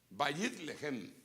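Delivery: "Bayit Lehem" slow, bajit lexem; Hebrew compound. Shown as a demonstration. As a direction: spell out "Bayit Lehem" slowly. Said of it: "que viene de". ("Bayit Lehem" lento, en hebreo)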